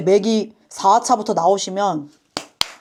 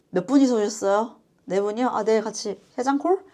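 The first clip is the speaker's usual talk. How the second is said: pickup line voice; 5 dB quieter than usual. Retold or imitated. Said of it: "을왕리 스킬".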